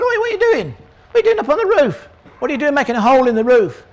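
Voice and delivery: high indignant shout from the crowd; shouted challenge. Retold or imitated. Onlooker yelling at men digging through the roof.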